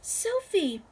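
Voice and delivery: shouting. A narrator's reading. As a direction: call her name over the noise. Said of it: "and she shouted".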